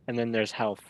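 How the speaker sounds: a touch of Southern on health. Shown as a demonstration. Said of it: "southern accent type of thing".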